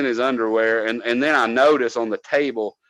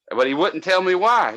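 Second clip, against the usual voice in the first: ordinary talk, nothing marked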